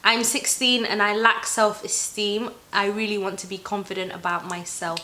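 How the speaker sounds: reading the question in a Somali accent; Somali-accented reading, slowed. Real, not acted. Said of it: "Why are you saying things with a Somali accent?".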